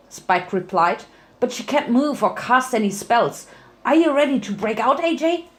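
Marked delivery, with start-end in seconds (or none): 1.4-5.5 put-on higher boyish voice, quick at the end; a little dragon asking eagerly; young dragon voice. Spike voiced in story.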